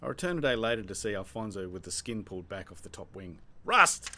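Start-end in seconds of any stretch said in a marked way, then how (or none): 3.6-4.1 loud, high triumphant shout; yelled. Acted. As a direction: bark it out proudly. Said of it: "he yelled".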